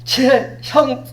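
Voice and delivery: high, pleading interruption; pushy churchgoer interrupting. Pretend. Congregant interrupting the pastor, high and pleading. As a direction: blurt it out like a rude congregant. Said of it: "갑자기 이렇게 딱 말을 한다고 생각하십시오".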